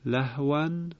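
لهواً said alone as lahwan, cut off; separated words. Shown as a demonstration. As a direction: say لهواً on its own, stopping after it.

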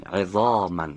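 عظاماً said clearly with a heavy ظ; model word. Shown as a demonstration. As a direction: repeat the student's word correctly. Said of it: "آفرین".

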